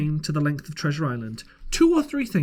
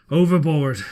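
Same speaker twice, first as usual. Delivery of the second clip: captain's curt reply; 5 dB louder than usual. A narrator's reading. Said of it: "said the captain".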